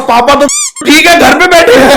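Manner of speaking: barely holding the laugh in; laughing retort. Real, not acted. Telling the cop his dad is fine at home, laughing.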